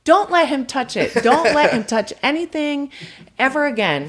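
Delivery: recalled furious demand to the staff; retold angry order. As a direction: forbid anyone to touch it, still fuming. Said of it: "I was so pissed".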